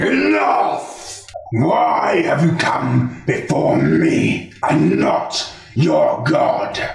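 angry dark lord. Acted. Fenrir angrily interrupts eulogy.

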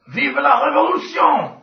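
high, loud French revolutionary shout; rallying cry. Acted. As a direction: cry the slogan like a rebel. GM shouts out the goblin banner's slogan.

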